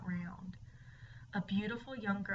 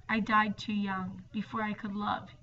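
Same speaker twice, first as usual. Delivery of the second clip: hollow ghost voice; 4 dB louder than usual. Acted. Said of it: "his voice was hollowed by the years".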